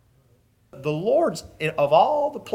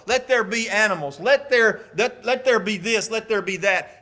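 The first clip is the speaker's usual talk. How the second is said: raised, ringing decrees in a list; higher-pitched proclamation; God commanding creation; 5 semitones higher than usual. Acted. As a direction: call each creation into being. God speaking creation, listed on.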